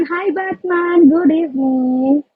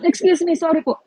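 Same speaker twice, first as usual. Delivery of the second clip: choking; faster than usual. Real, not acted. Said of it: "Nabulunan ako".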